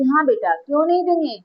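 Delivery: a proud seth happily spoiling his daughter; indulgent rich father. Acted. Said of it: "तो सेठ कहता है कि".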